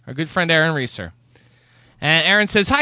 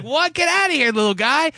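exasperated; 9 semitones higher than usual. Retold or imitated. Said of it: "I'm like".

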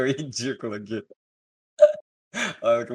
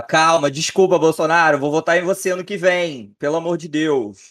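higher, louder mock begging voice; pleading imitation; 5 semitones higher, 6 dB louder than usual. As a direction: beg like a scared fan. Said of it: "O pessoal falar".

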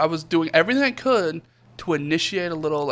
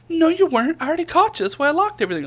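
imitating dad; 13 semitones higher, 3 dB louder, faster than usual. Voicing dad catching him.

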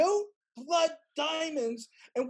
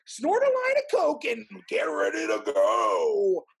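hyped shout; 4 semitones lower, 5 dB louder, slower than usual. Pretend. Hype before going live.

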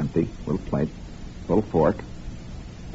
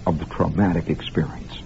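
whisper; 5 semitones lower, 5 dB quieter than usual. Acted. Confiding the shameful core.

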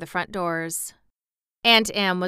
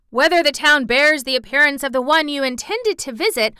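high, loud nonstop babble without pause; breathless rambling boy; 7 semitones higher, 6 dB louder than usual. Acted. Boy rambles at the wizard, high nonstop babble. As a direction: rattle it off like a boy who never breathes. Boy's endless rigmarole speech.

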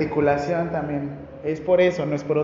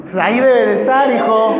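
mom answering; 3 semitones higher, 6 dB louder than usual. Retold or imitated. Mother brushing off her son's question, raised and louder. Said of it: "Como de mamá".

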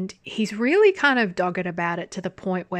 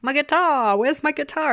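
high-pitched fretting over a guitar; Hite; 8 semitones higher, 3 dB louder than usual. Retold or imitated. Man fixated on his missing guitar, high imitated plea. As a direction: imitate him whining for his instrument, pitched up. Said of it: "Hite's still like".

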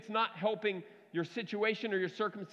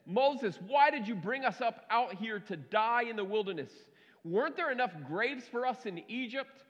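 sarcastic. Acted. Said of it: "You hear the sarcasm in their voice".

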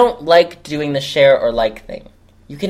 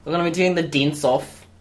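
mock Australian dancer; Australian accent; 3 semitones higher than usual. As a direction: lightly put on an Australian accent. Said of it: "two of them are Australian".

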